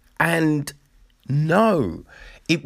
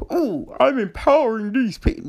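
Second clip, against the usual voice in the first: sarcastic mock; 9 semitones higher, faster than usual. Mocking a self-righteous attitude.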